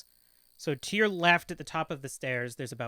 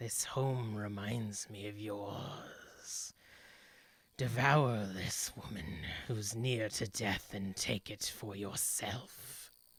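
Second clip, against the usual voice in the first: echoing, low, hushed inner voice; 4 semitones lower, 7 dB quieter than usual. The game master voices something echoing inside a player character's own mind. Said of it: "You almost hear echoing through the building, but still within your own mind".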